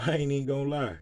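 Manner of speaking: laughing. Real, not acted. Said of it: "You can probably hear it in my voice".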